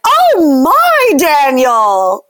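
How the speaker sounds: high, loud sugary mom voice; overly sweet TV mom; cartoon mom. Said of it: "the mom comes in and is like".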